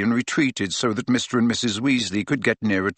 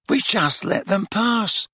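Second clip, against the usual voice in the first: slow, high, hollow-voiced regret; 10 semitones higher, slower than usual. A narrator's reading. Tonks admits they let Snape pass, hollow. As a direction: let it drift out high and drained. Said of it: "in a hollow voice".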